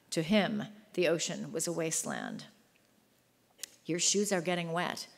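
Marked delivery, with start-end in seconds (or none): 3.9-5.1 chattering teeth. Acted. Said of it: "said through chattering teeth".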